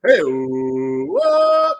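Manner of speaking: loud startled outburst; surprised shout. Real, not acted. Streamer reacting loudly to a surprise prize. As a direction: react like you can't believe it.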